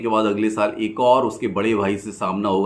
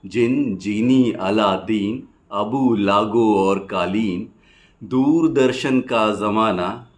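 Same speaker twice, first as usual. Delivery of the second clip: rhythmic rhymed verse, pausing after each line; poem recitation; 3 dB louder, slower than usual. Acted. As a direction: recite it as lilting stage poetry. Recites rhymed childhood nostalgia poem.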